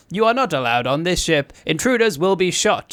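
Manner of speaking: flat mock robot voice. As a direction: recite it like a looping robot. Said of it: "guy doing a robot voice".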